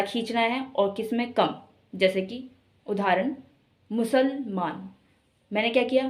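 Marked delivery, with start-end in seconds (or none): 3.9-4.9 मुसलमान in two beats, मुसल then मान; syllable stress. Shown as a demonstration. Teacher gives an example of stress, मुसलमान split before मान. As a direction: lean on मान in मुसलमान after a slight break. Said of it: "जिन अक्षरों पर हम बल दे रहे हैं".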